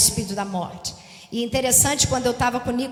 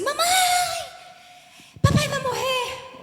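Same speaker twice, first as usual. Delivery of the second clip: put-on scared child cry. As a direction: cry it out like a frightened daughter. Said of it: "começou a gritar".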